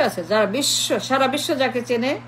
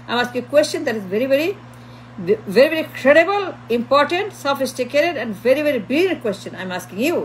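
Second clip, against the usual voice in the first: slow, drawn-out ironic praise; slow sarcastic overpraise; sarcastic mock praise; much slower than usual. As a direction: stretch each very out like fake flattery. Sarcastic praise of own question.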